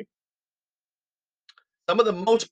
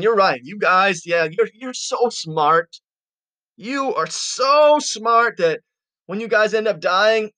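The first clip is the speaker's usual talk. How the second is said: Job; 2 semitones higher than usual. Acted. Fed-up Job flattering his know-it-all friends, sarcastic. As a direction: pretend to agree, laying the sarcasm on. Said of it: "You can sense his sarcasm here".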